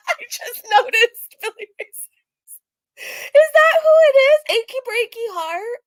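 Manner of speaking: high, loud, sudden discovery; startled amused realization; surprised. Real, not acted. Reactor noticing a poster, surprised.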